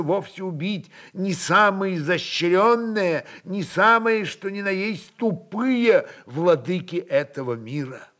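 usual speaking voice

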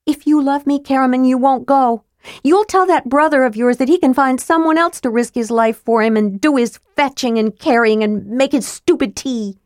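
put-on high, insistent young woman; demanding young woman. A narrator's reading. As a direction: lay down the ultimatum. Tika voiced, demanding.

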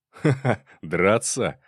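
a furious man laughing at his rival's offer to fight. A narrator's reading. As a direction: laugh off the idea of a fistfight. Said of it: "рассмеялся Щеглов".

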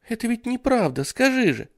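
put-on high, small worried child; thin little girl voice. Jennifer asks the babysitter, high thin child voice. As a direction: ask it in a tiny girl's voice. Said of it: "тоненьким голоском".

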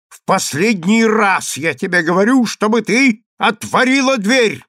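last warning, hammered out; angry ultimatum. Acted. Consul's last warning to his wife, angry. Final ultimatum at locked door.

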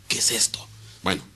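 whispered puzzled question; whispered bewilderment. Retold or imitated. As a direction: hush it like a secret wonder. Listener puzzled by vision.

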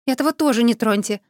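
a mild warning shout; called out. Acted. Heroine protecting her pet from the necromancers, calling out. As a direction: call out just in time. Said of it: "выкрикнула вовремя".

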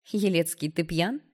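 mildly affectionate, teasing question; sweetly inquiring. A narrator's reading. Girl asks her stepbrother if he drank, sweetly. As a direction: ask with a touch of sweetness. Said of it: "ласково поинтересовалась девушка".

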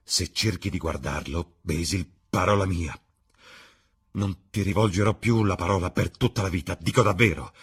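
urgent warning, easing into measured threat; earnest ultimatum. Acted. Dorian warns Basil off the screen, earnest ultimatum. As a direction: warn firmly, swearing you mean it.

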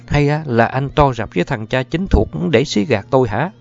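cao giọng, nghiến từng chữ; mỉa mai, trách chồng cay nghiệt; giọng đầy nghiến. A narrator's reading. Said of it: "giọng của Thiểm trở nên đầy nghiến". (vợ nghiến giọng trách chồng nói dối)

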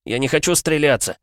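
high, loud tearful pleading; crying. A narrator's reading. Constable refuses to shoot himself, crying. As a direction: weep and beg. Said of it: "снова заплакал участковый".

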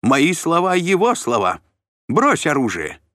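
high, loud pompous shout; shrill order. A narrator's reading. Shlom orders Mashek to drop his weapons, high loud shout.

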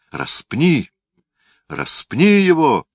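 high, loud mob roar; roaring crowd. A narrator's reading. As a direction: bellow it like a furious crowd. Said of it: "снова заревела толпа".

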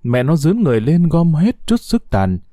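ordinary delivery

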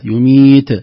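loud يميت with a bounced, voiced ت; bouncing final ta. Shown as a demonstration. Teacher repeats the qalqala error for listeners, bounced ending. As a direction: release the ت of يميت into a tiny vowel. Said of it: "هذه قلقلة".

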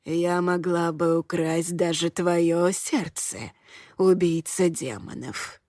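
put-on slow, low creaky old woman voice; old woman whispering. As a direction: tease him slyly in a creaky crone voice. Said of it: "лукаво проговорила она скрипучим голосом".

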